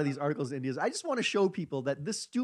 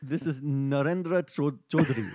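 put-on Indian accent; 2 semitones lower than usual. Podcast host gives in to co-hosts' requests, Indian accent. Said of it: "Please go Indian".

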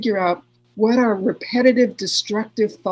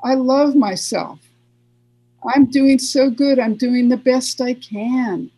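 higher and louder, bright self-encouragement; upbeat affirmation; 4 semitones higher, 3 dB louder than usual. Pretend. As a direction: cheer yourself on, pitch lifted and loud. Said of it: "Or you can go".

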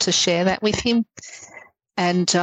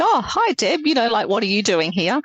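higher-pitched, surprised hello easing down; surprised greeting; 5 semitones higher than usual. Retold or imitated. Policeman to old colleague at a crash, surprised greeting. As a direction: act out a surprised greeting in retelling.

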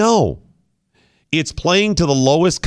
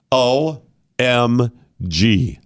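mock shock; 3 semitones lower, much slower than usual.

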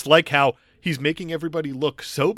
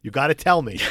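English accent. Shown as a demonstration. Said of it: "This is my English accent now".

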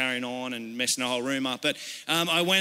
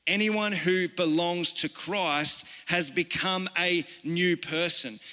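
scripture reading; slower than usual. Real, not acted. Restates the verse slowly.

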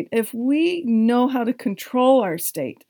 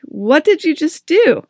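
sharp, raised indignant question; 6 semitones higher than usual. Retold or imitated. To the woman who dinged her van, indignant raised question. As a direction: demand an answer from the stranger. Confronting woman over car door.

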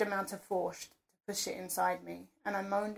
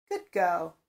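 exclaimed; 5 dB louder than usual. Acted. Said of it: "Sir exclaimed".

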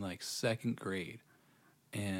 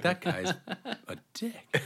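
high, loud, laughing as he speaks; 9 semitones higher, 4 dB louder than usual. Real, not acted. Friend voicing the restaurant staff's thoughts, laughing. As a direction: crack up while getting the words out.

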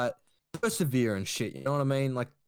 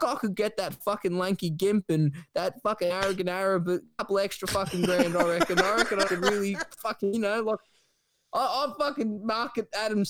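higher, eager wheeler-dealer voice; high eager Ricky; 5 semitones higher than usual. Retold or imitated. Ricky pitching his marketing schemes, voiced higher and eager. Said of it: "And Ricky then says".

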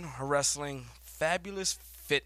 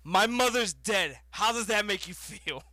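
retold comeback; 5 semitones higher, 3 dB louder than usual. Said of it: "gets in his kid's face and goes".

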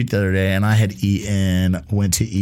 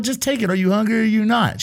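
mock exasperation; 11 semitones higher than usual. Retelling pushing food on beggar.

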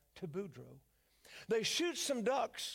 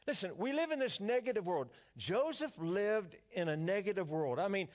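usual speaking voice

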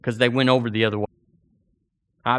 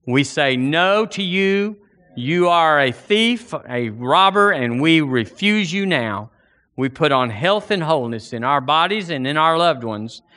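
fervent prayer; 3 semitones higher than usual. Acted. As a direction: pour it out to the Lord before the congregation. Leads congregation in prayer.

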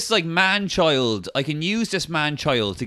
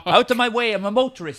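silly clown; 7 semitones higher, faster than usual. Pretend. Playing an indignant driver.

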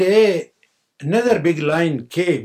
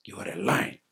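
deep lion command; 8 semitones lower than usual. Acted.

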